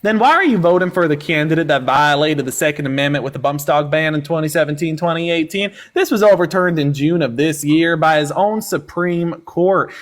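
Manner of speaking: drawling mock country accent, lightly done; country accent slipping in and out; put-on country accent. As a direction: play a hick country caller-host accent. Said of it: "whatever accent that was".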